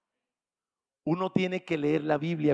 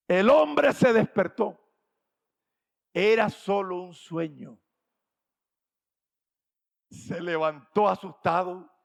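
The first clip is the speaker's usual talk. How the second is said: dramatic narration; 3 semitones higher, 7 dB louder, slower than usual. A narrator's reading. Story climax, slowed and loud.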